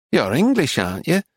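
lightly voiced North Country English old lady; a hint of a North Country English accent. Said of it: "in an English North Country accent".

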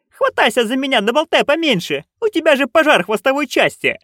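high-pitched, urgent bossing; urgent nanny. A narrator's reading. Nanny telling burning friend to grab on, urgently. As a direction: call out urgently in a high old-witch voice.

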